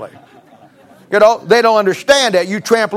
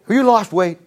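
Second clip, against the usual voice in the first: sweet-talking husband. Retold or imitated. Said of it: "you just simply say".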